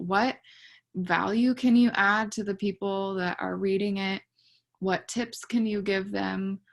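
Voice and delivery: talking through a numb jaw after the dentist. Real, not acted. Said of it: "I feel like I'm drooling".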